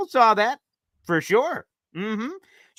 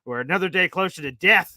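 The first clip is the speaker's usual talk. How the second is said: slow, loud mock despair; mock doom; 4 dB louder, slower than usual. Gloomy caller imitated with slow, hammed-up despair. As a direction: wail about the season like it's the end. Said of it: "Tony Alexio comes in".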